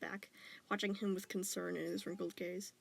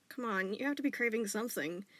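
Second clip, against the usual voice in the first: encouraging; 4 dB louder than usual. Acted. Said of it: "his dad encouraged".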